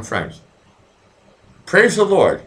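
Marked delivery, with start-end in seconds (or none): 1.7-2.4 hammed-up preacher exclaiming praise, higher and louder; mock preacher. Joking bishop praising the end of the week, hammed-up preacher. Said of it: "call me Bishop Blackie".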